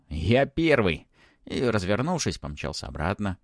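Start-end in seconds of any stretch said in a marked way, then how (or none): 0.1-1.1 gleeful triumphant cry; joyful shout. A narrator's reading. Boy wins the race down the corridor, shouting joyfully. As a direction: call out in happy victory. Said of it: "радостно крикнул".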